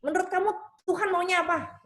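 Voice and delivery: high-pitched mom handing the question back; a slightly smug mama. Retold or imitated. Mother makes her child work out God's wish, mildly smug. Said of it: "Mama nih agak sombong kan".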